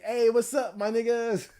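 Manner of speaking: friendly laid-back bro greeting; a hint of a chill homie; casual greeting voice. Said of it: "He ain't saying it like".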